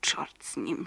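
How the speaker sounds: low muttered whisper under her breath. Acted. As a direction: whisper it so grandpa won't hear. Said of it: "szepnęła Alicja".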